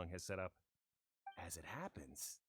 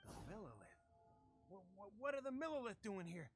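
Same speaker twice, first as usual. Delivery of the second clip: stammering, suddenly much softer; startled fear; 5 dB quieter than usual. Acted. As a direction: caught off guard and scared. Thug startled by guards.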